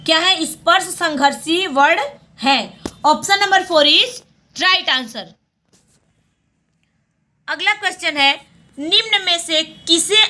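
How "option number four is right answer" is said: very slow, spelled-out English answer; slow answer announcement. Shown as a demonstration. Teacher announcing the quiz answer to students, very slowly. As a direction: drag it out word by word like announcing a result.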